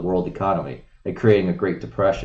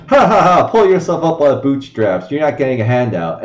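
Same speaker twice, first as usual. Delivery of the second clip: higher, louder sneering "ha ha ha" then a lecture; mock the smug boomers with a loud fake laugh; 4 semitones higher, 5 dB louder than usual. Mocking selfish boomers who tell everyone, sneering. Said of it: "you tell everyone".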